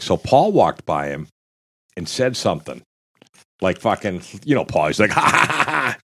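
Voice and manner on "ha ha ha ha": mock laugh. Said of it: "fucking laughing".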